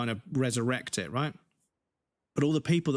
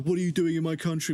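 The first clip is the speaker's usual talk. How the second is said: a raised, louder mock of a hostile racist; imitating a racist; 6 semitones higher, 3 dB louder than usual. Vlogger mimicking a racist in a clip, hostile and loud. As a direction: throw the line out like an angry street bigot, half-acted. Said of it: "It's racists, like".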